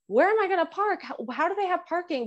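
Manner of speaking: mock flustered and high-pitched; retold fretting. Driver wondering where to park on the hill, mock fretting. Acts out own worried reaction to parking.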